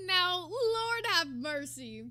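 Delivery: loud, long-drawn exasperation; exasperated. Real, not acted. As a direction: groan it slowly and loudly, as if dreading what comes. Dreading the part of the clip.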